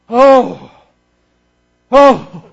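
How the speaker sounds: emphatic, separated cries of "oh"; preacher's moved exclamation; heartfelt "oh". Real, not acted. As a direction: let each "oh" burst out alone. Overcome while picturing the Father's sacrifice.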